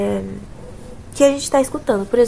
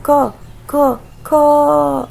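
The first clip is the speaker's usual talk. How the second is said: clucked; 3 semitones higher, 4 dB louder, much slower than usual. Shown as a demonstration. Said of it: "Ele não faz có".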